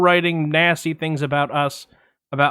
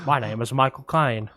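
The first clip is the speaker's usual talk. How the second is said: Michael Caine impression; 3 semitones lower, 3 dB quieter than usual. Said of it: "I could definitely do Michael Caine".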